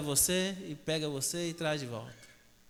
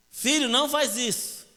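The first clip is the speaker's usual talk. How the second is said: higher, firmer mock scolding; motherly scolding; 5 semitones higher, 4 dB louder than usual. Mother sees her son misbehave, motherly scolding. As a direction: scold the child with raised pitch.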